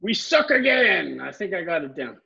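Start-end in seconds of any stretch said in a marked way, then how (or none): 0.0-1.2 drawn-out mock Chinese accent, higher pitch; slow, exaggerated East Asian accent impression; Chinese-accented groundskeeper. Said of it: "You sounded Chinese".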